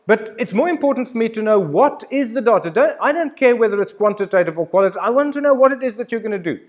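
rising, hurried insistence; emphatic insistence. Real, not acted. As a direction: push hard, I want to know. Insisting on the point.

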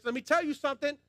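preacher raising the voice on tell; emphatic repeat. Shown as a demonstration.

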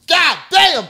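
a startled yell at a pistol in his face; shocked shout. Retold or imitated. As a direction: blurt it out as the gun comes up.

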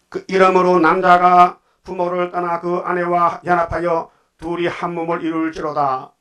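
slow, solemn reading of the verse; scripture reading. Acted. Preacher reads the marriage verse to the congregation, slow and solemn. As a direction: intone each phrase like holy writ.

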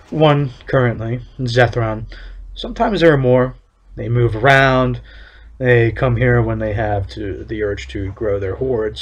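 lightly voiced stern official, measured and solemn; town overseer. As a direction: read it as a proud town overseer laying down the law. Reads overseer's NPC lines.

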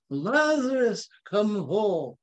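put-on slow, high, grand English accent. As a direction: intone it with a theatrical English accent. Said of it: "You say it with an English accent".

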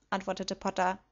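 ordinary delivery

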